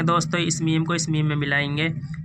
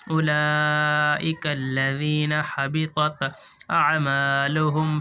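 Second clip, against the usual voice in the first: slow, measured chanted recitation of the verse; Quran recitation; much slower than usual. Acted. Teacher reciting the verse slowly for students to follow. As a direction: recite it slowly, drawing out each word.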